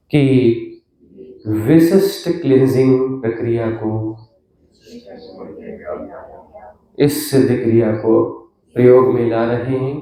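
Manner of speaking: solemn invocation with long pauses between phrases; measured, reverent prayer. Real, not acted. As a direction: call on the divine phrase by phrase, leaving silences.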